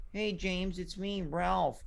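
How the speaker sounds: mock cool-guy voice, softly done; slow, subdued mimicry of a caller; Ralph. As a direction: lightly imitate the caller's slow, casual voice. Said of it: "your voice kinda sounds like this".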